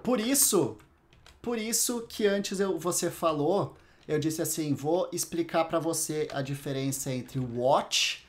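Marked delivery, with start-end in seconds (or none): none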